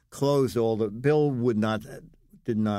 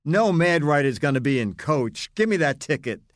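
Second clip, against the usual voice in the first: imitated insistence; 4 semitones higher, 4 dB louder than usual. Acting out airline guy's indignant upgrade.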